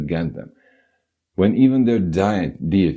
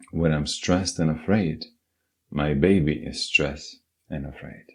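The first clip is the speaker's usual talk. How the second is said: calm affirmation; 2 semitones lower than usual. Shown as a demonstration. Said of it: "Next refrain".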